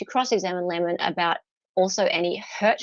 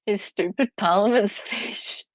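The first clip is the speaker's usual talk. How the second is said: laughing through the repeated quote; can't hold in the laughter. Real, not acted. Repeating the witness's gaffe, laughing. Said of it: "repeats quote laughing".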